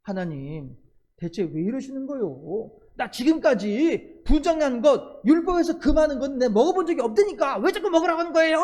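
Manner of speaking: exasperated Peter snapping at God; mildly irritated complaint. Acted. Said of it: "약간 짜증을 내는 거예요".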